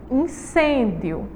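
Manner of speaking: "incêndio" drawn out slowly, nasal "in" and "cên"; slow teaching "incêndio"; slow model word. Shown as a demonstration. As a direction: stretch "incêndio" syllable by syllable. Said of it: "emitimos esse som diferente".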